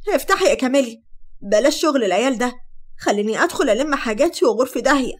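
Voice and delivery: loud, agitated pounding demand. Acted. Sara at the locked door, loud and agitated. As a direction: shout through the door. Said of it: "وهي بتخبط بانفعال".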